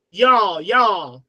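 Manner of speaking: y'all in a light Southern accent; a touch of Southern US on y'all. Shown as a demonstration. Demonstrating the Southeast's speech, light Southern accent. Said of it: "They have the Southern accent".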